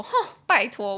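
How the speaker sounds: loud, exclaimed retort; imitated loud retort. Friend brushing off the farewell, loud mock protest.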